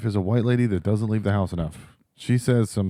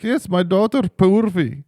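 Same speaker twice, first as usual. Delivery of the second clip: higher, slow mock reply; lightly voiced proud mother, slowly; imitating boss; 8 semitones higher, 3 dB louder, slower than usual.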